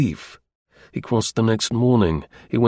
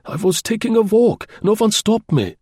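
faltering; 11 semitones higher, 3 dB louder than usual. Acted. Cowed prisoner excuses himself.

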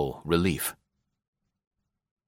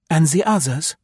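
demanding; 8 semitones higher, 4 dB louder than usual. A narrator's reading. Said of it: "demanded Marie".

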